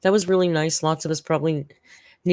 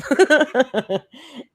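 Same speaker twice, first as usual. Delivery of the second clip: a real, slightly louder teary laugh; embarrassed emotional laugh; 10 semitones higher, 7 dB louder than usual. Real, not acted. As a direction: laugh through the tears. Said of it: "It gets me every time".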